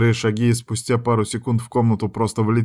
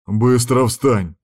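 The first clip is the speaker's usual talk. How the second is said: slow, weighty, louder command; barked order; 2 semitones higher, 4 dB louder, much slower than usual. Acted. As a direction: bark her off the couch. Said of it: "гаркнул на меня".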